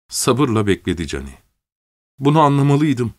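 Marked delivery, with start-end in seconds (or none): 2.2-3.1 sobbing. Acted. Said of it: "diye hıçkırıyordu kadın".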